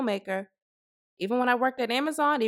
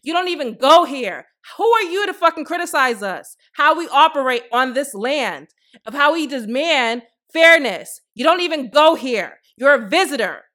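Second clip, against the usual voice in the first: put-on mean girl voice; 3 semitones higher, 6 dB louder than usual. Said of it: "In my mean girl's voice".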